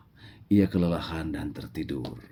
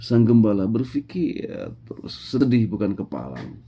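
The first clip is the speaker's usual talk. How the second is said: plain reading voice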